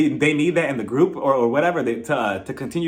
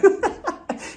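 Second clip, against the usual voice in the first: high burst of laughter; real amused laugh. Real, not acted. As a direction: crack up briefly, high. Laughs at own joke.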